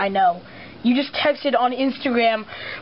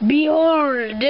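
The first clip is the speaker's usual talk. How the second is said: grand villain announcement; 2 semitones higher than usual. Acted. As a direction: proclaim it like a villain. Repeated unveiling.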